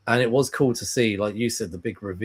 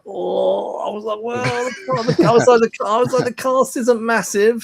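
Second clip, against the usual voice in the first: retold hedging; 12 semitones higher, 7 dB louder than usual. Son retelling dodging mum's question about cast, high hedge.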